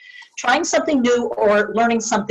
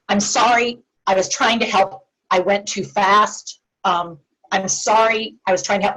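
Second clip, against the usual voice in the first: sincere apology. Shown as a demonstration. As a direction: apologize evenly, without pushing. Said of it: "It's all an inflection in tone".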